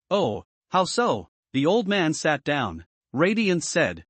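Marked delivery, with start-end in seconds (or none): 0.1-1.3 laughing ask. A narrator's reading. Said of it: "laughing and asking".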